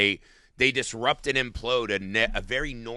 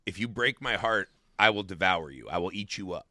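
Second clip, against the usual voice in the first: retold motherly threat, lower and softer toward the end; understated menace; quiet threat; 4 semitones lower, 5 dB quieter than usual. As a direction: threaten softly, letting the voice sink. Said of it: "it's this kind of threat".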